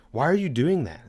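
mildly incredulous, imitating a questioning wife. Quotes his wife challenging him.

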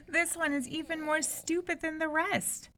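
high sneering princess voice; mocking princess. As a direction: sneer at the sleeping fool. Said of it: "exclaimed the eldest princess".

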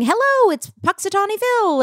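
imitating handler. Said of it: "he started off by saying".

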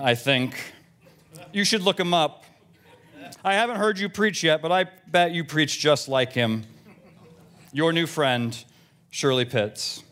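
lightly voiced opinionated church lady; a hint of a fussy churchgoer, deadpan; Shirley. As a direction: read the email as a mildly prim, chatty parishioner. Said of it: "Here's the first from Shirley".

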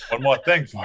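imitating a bird. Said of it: "Why did you talk like a bird".

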